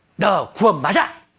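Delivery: upset, angry, high tone. Example answer one in a quiz on tone, angry tone. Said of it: "화가 난 말투죠".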